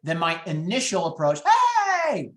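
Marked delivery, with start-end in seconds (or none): 1.4-2.3 high, loud mock "heyyy"; over-cheery greeting. Agent greeting a grieving seller, wrongly over-cheery. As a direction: blare an absurdly upbeat, drawn-out hello. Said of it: "that's not the approach to stick with".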